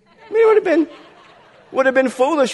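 laughing through the words, starting high; real laughter at his own joke. Real, not acted. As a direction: chuckle your way through the punchline.

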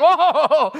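loud mock whoa of amazement; be swept up in the story. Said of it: "he's like".

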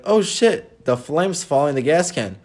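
mock panic. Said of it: "I was like".

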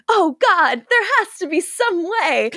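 plead, half-hammed, for a way out; mock distressed plea. Cammy begging Kieran for a cure, mock distress.

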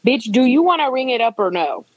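imitated exasperated demand; impatient cashier. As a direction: push for an answer, fed up. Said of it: "the cashier was just like".

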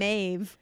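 "Mave" said with a long A; mispronunciation demo. Shown as a demonstration. Guest shows host a wrong version of the name, "Mave" with long A. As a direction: say "Mave" to rhyme with wave. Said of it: "It's not like you say Mave".

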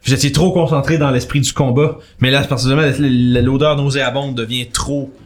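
description d'ambiance posée, un peu dramatique; narration de maître du jeu. A narrator's reading. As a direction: poser la scène pour les joueurs. GM narrates the scene. (le MJ décrit l'odeur de mort aux joueurs, ton de narrateur)

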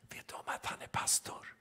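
soft secret whisper to a colleague. Retold or imitated. Barber whispering to the hairdresser about the customer, secret whisper. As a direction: hush it like gossip. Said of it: "hör jag hur han viskar".

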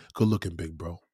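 put-on low quiet whisper to the boyfriend; a father's quiet whispered gratitude; whispered aside. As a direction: hush it like a secret thank-you. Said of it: "That man's gonna be like".

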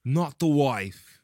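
put-on slow, high, loud Southern-accented echo; weird Southern accent. Co-host echoing the husband's plea, Southern accent. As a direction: draw it out in a hammed-up Southern accent. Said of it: "has this weird Southern accent".

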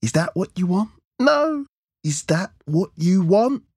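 high-pitched, insistent, escalating demand; angry taunting. A narrator's reading. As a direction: hammer the question at the hostage. Gunman bullies crying hostage.

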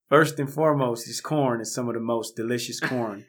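a hint of a gangster speaking properly; lightly proper voice. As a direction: repeat it in mildly mock-proper tones. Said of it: "most proper voice".

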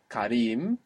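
Karim with a long stressed RIM; stress on second syllable. Shown as a demonstration. Teacher showing the accent stayed, stress on RIM in Karim. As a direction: put the weight on the "i" of Karim. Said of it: "it didn't move".

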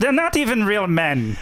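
high-pitched mock German accent. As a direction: sneer as a comic German dictator. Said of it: "that's a German accent".

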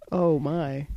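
shocked little whisper; a stunned hushed aside. Real, not acted. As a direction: breathe it out under your breath, appalled.

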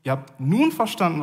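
nun lifted and given the falling accent; stress on nun. Shown as a demonstration. Preacher to the congregation, stressing nun. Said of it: "Die Betonung liegt auf dem".

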